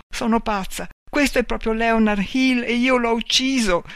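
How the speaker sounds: high-pitched, distressed thought; frightened. A narrator's reading. Marta believes she has killed Leonard, frightened and high. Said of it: "Aveva paura e cominciò a piangere".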